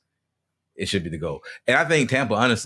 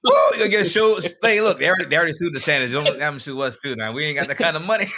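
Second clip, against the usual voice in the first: excited; 8 semitones higher, 7 dB louder than usual. Real, not acted. Hyped joking about lawsuits.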